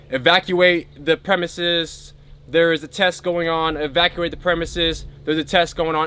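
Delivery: measured mock announcement from a military intercom; hint of a general on an intercom. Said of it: "not yelling, but, like, on, like, an intercom".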